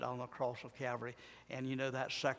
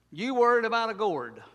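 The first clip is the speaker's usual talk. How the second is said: louder and higher, hammering the rebuke; emphatic repeat; 8 semitones higher, 10 dB louder than usual. Shown as a demonstration. Preacher driving God's rebuke to Jonah home, loud. Repeating line with rising intensity.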